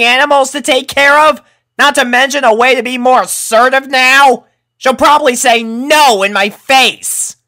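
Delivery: loud, high, heated tirade; venting frustration at her friends; exasperated rant. A narrator's reading. Rainbow ranting at Applejack.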